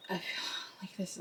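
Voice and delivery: breathy whisper under her breath. Real, not acted. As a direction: whisper it to yourself. Reader pauses to channel.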